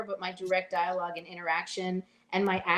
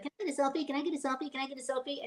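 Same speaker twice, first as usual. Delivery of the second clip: pestering selfie hunter; 5 semitones higher, 5 dB quieter, much faster than usual. Retold or imitated. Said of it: "everything who worked with him, like".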